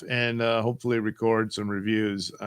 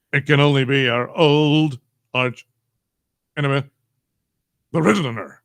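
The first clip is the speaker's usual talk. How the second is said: louder dramatic Batman reveal; 5 dB louder than usual. Acted. Streamer as Batman naming his arch enemy, mock dramatic. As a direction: announce the villain with mock gravity. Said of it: "again, Batman".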